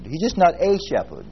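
He's just not a shepherd, not leaned on; stress on not. Shown as a demonstration. Preacher contrasting for his class, stress on not. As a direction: set up the contrast. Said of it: "But He's my shepherd".

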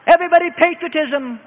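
high rallying shout; rally everyone with a high ringing call; rousing war cry. Acted. Wartime nation roused to patriotism, high rallying cry.

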